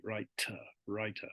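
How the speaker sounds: WRITER with a clearly released T, said softly; audible T. Shown as a demonstration. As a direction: let the T in "writer" be heard. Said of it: "You can hear the T".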